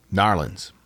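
Narlins said with a rolled pirate R, NAR-lins; pirate accent. Shown as a demonstration. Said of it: "I like how you say it like a pirate".

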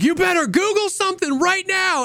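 high squeaky mock demand; mock high threat. Friend imitating Geeks ordering a stranger in a high squeak. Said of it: "And Geeks was like".

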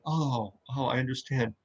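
soft, quick mock Padme excuse; lightly voiced flustered Padme. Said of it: "her response would have been".

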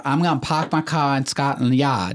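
lightly hammed-up Boston accent; mock Boston accent. Podcast host teasing the Celtics' city, mock Boston accent. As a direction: put on a playful Boston accent. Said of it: "My apologies to everyone that lives in Boston".

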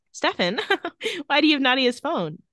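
lightly mimicked innocent girl; Elena voice. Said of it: "She puts on an Elena voice".

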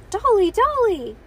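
put-on high, loud toddler-style cry; excited doll cry. A narrator's reading. Doll waved at toddler, high excited cry. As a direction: squeal the word for the toy.

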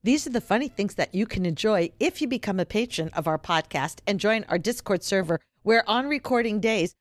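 smooth, steady podcast ad read; announcer voice. Acted. Host plugs the Patreon in announcer voice. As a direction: sell the Patreon like a radio plug. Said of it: "you just did announcer voice".

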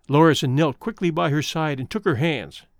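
plain reading voice

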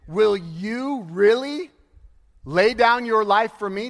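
slow teasing question, leaning on really; friendly jab. Retold or imitated. Jesus teasing Peter about his promise, slow friendly jab. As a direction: gently poke at his boast, drawn out. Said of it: "it's a friendly jab".

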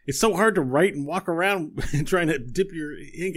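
mild fussy complaint; Buttons grumbling. Acted. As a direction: fuss over the ink. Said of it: "and he's like".

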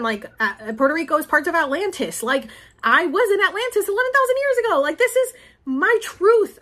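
builds from firm to high, insistent declaration; rising into a passionate, defiant proclamation of her truth; defiant outburst. Retold or imitated. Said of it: "I was like".

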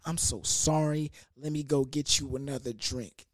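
a mild, quiet apology; apologetic. Retold or imitated. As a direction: say it like you're truly sorry. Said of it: "super apologetic, super nice".

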